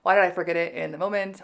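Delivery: mock frustration with yourself; self-annoyed. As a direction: act out kicking yourself over a slip. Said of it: "seeing myself make any mistakes is always like".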